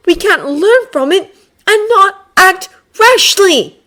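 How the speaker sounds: put-on high, loud haughty boy voice; Draco voice. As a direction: promise it with a sneer.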